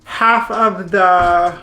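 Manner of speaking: winded from packing; breathless, puffing between words; out of breath. Real, not acted. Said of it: "I'm out of breath".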